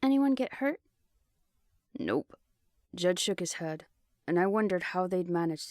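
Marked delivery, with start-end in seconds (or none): 0.0-0.8 higher, louder concerned call. A narrator's reading. Calling to arriving soldiers. 2.0-2.4 much lower clipped male voice; gruff man voice. A narrator's reading. Jed voiced.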